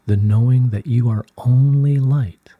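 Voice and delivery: gentle whispered guidance. Acted. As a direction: breathe the words out as a whisper.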